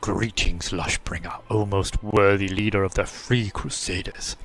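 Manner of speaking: low, slow ancient tree voice; a slow, deep old treant; talking tree. Acted. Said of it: "says the treant whose bark is cracked and gnarled".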